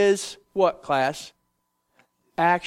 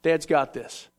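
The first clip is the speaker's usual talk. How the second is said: slow, low and easy; calm reassurance; 4 semitones lower, slower than usual. Retold or imitated. Moses telling his frightened people to sit tight, slow calm reassurance. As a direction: settle them like a confident dad.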